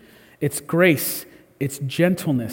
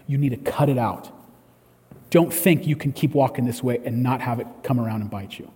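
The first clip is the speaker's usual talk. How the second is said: firm but loving; 4 semitones lower than usual. Retold or imitated. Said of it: "When you might need to say".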